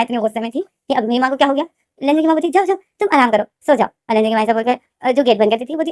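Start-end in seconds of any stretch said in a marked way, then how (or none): 2.5-3.9 sugary coaxing. Acted. Mother suddenly sweet.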